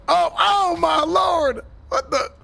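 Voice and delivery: startled shout. Acted. Sheriff sees the man suddenly vanish, startled shout. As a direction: yell it like you just saw something vanish in front of you.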